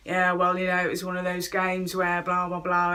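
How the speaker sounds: bored football pundit drone; monotone commentator. Shown as a demonstration. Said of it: "I'm talking in a monotone voice".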